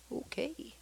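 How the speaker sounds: very soft, high, wary okay; Doctor Simpson. Retold or imitated. Doctor watches the couple come back in, very softly. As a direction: draw it out in a tiny cautious voice. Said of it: "Doctor Simpson's like this".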